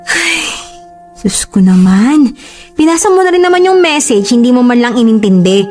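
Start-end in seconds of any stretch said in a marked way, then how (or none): 2.8-5.6 high-pitched, indignant defence; exasperated protest. Acted. Girlfriend defending an innocent message to boyfriend, exasperated. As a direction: argue back, pitch jumping up. Defends herself in jealous quarrel.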